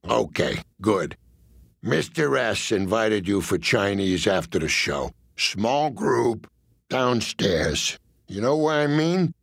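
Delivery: a hint of a low menacing tough guy; lightly voiced cool gangster; mob enforcer voice. Jilly's invitation.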